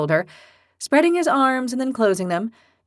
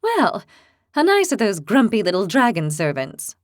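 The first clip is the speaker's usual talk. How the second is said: sarcastic. Acted. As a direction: sneer with fake sweetness. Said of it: "Lily commented sarcastically".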